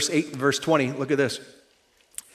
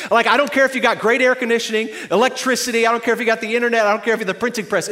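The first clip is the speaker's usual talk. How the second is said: fast comic rant; 4 semitones higher, 3 dB louder, much faster than usual. Real, not acted. Comic rant about screaming babies.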